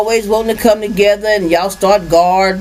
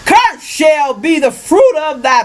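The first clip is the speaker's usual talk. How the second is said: preaching scripture; 2 semitones higher, slower than usual. Acted. Reads the curses aloud.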